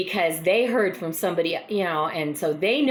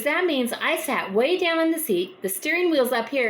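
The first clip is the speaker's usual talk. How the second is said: higher, lightly voiced short lady explaining; mock Mrs Jones; 7 semitones higher than usual. Mrs Jones explaining to Mrs Smith, lightly voiced higher.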